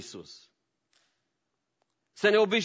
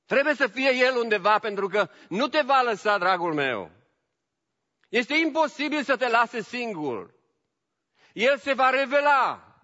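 rising, louder preaching; 7 semitones higher, 4 dB louder than usual. Acted. Preacher rallying the church, rising and louder. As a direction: lift the congregation with conviction.

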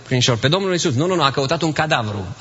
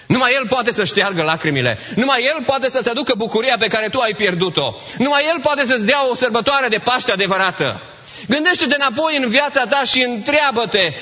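raised, urgent sermon appeal; fervent preaching; 7 semitones higher than usual. Acted. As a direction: press the congregation with rising fervour. Preacher's direct appeal to listener. (predică înflăcărată, cu glas ridicat)

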